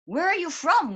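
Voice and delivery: excitedly retold nosy question; eager questioning. Curious women eagerly questioning foreigner.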